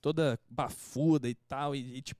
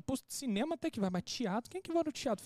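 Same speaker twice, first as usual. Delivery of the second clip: rising in mock disbelief, higher; incredulous; 8 semitones higher than usual. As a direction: scoff at the very idea of theatre. Retells his disbelief at theatre invite. (incrédulo, agudo, zombando)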